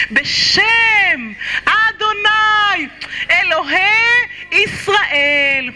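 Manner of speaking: slow, measured blessing; solemn bedtime-style blessing; solemn prayer. Acted. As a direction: lay each name down reverently. Recites angels protection prayer.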